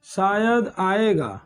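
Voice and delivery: slow, drawn-out "शायद आएगा" as an unsure guess; slow doubtful example. Shown as a demonstration. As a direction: stretch "शायद आएगा" slowly, uncertain. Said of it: "ऐसे ही बोल सकता है शायद".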